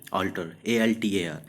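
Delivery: altar said slowly as alter, then spelled; teacher showing same sound; slow spelled-out word. Shown as a demonstration. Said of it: "ये भी pronunciation इसका भी क्या है?".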